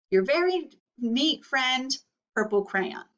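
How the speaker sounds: prim crayon close to losing it; a hint of a neat-freak crayon getting fed up; Purple Crayon's letter. Teacher reads Purple Crayon's letter.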